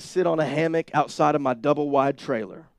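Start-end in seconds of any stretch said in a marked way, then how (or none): 1.5-2.7 a sudden touch of southern twang; southern accent. Real, not acted. Preacher recalling his old home, accidental southern accent. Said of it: "my accent went southern all of a sudden".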